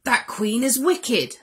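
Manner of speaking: indignant dwarfs. Acted. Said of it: "they said, with a shake of their heads".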